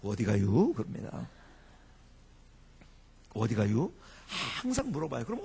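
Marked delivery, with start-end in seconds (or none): 0.0-0.7 low Chungcheong driver's question, rising at the end; terse, low-pitched driver query; Chungcheong taxi driver. Acted. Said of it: "운전사가 이렇게 물어봅니다". 3.3-3.9 low Chungcheong driver's question, rising at the end; terse, low-pitched driver query; Chungcheong taxi driver. Acted. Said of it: "운전사가 이렇게 물어봅니다".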